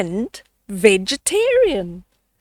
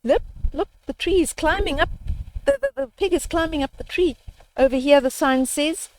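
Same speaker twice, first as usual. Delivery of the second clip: excited pointing; 3 semitones higher, faster than usual. Acted. Sisters excitedly pointing things out.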